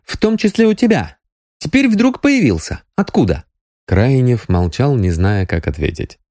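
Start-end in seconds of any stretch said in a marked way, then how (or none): 0.0-3.4 high, pressing interrogation; merciless. A narrator's reading. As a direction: keep pushing him, no mercy. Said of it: "безжалостно продолжила Соня". (безжалостный допрос высоким голосом)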